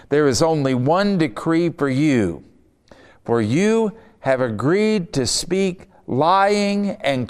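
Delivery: slow, weighty reading of the king's demand; scripture reading. Acted. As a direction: lean on each word of the king's decree. Reads king's words, slow.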